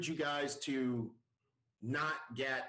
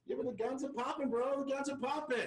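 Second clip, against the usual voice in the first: excited hype; 8 semitones higher than usual. Real, not acted. Hyping the guest's muscles.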